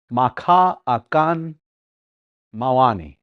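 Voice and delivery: careful teaching pace; slow demo. Shown as a demonstration. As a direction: slowly sound out "Maka akan". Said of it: "here's my example".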